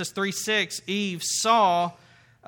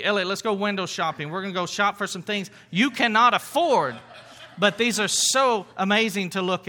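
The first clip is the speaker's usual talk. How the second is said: laughing. Pretend. Friend tempting him to go shopping.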